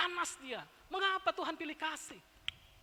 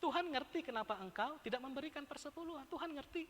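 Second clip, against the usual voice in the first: mock-soothing; 3 semitones lower, 3 dB quieter than usual. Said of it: "saya sering mengatakan".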